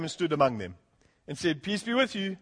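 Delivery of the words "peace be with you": gentle risen Jesus. Retold or imitated. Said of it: "He said it like that".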